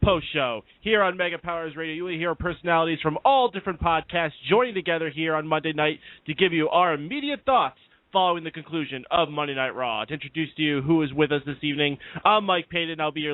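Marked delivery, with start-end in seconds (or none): 0.0-10.0 higher-pitched radio host opening; lifted, punchy show-intro delivery; show announcer. Real, not acted.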